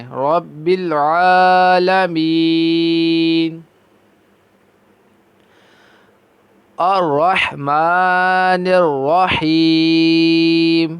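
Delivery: رب with a soft, light ر, recited very slowly; slow recitation with a soft ر in رب. Shown as a demonstration. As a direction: say رب gently, not heavy. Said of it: "بالکل نرمی سے پڑھیں".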